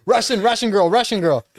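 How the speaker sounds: imitated excited fans. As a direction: point her out like an excited fan. Imitates people calling her Russian.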